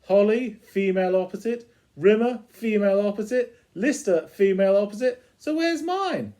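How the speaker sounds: lightly voiced vain cat; the Cat demanding his match. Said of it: "the cat comes in and says".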